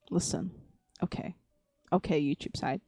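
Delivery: soft, low and careful; calm the chat down in a low murmur; hushed appeal. Real, not acted.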